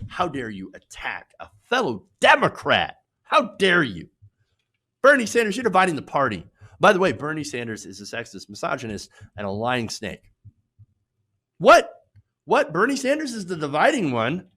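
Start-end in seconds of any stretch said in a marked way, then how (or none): 0.1-6.5 mock outrage. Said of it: "they're like". 11.6-14.5 incredulous. Real, not acted. Disbelief at hypocrisy.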